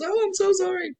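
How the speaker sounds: high, whiny fake apology; mocking a woman's insincere apology; mock crocodile tears. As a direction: mimic a fake sorry in a simpering voice. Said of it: "crocodile tears".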